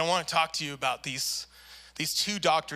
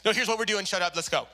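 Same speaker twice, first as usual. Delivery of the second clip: brusque surgeon; 2 semitones higher, faster than usual. Retold or imitated. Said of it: "rough bedside manner".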